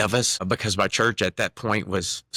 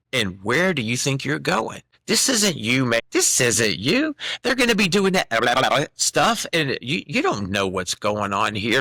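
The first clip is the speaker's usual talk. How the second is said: voice of Satan. Retold or imitated. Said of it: "I hear a voice".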